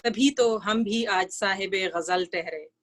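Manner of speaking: measured, lilting verse reading; ghazal recitation. Acted. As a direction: recite the couplet for a mushaira audience. Recites her ghazal to audience.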